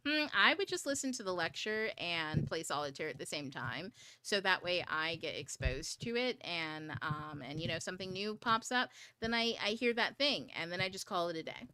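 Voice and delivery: lightly voiced laid-back husband; relaxed, unhurried husband advice; chill husband. Wife imitating her husband's calm study advice, lightly relaxed. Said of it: "He really said it like this".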